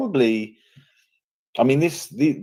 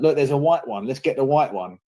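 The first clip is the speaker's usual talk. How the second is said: a hint of a groomer, pitched up; imitated groomer; 4 semitones higher than usual. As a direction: lightly act out someone pointing out a target, higher. Voices groomers picking a target.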